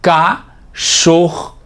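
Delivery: slow syllables. Shown as a demonstration.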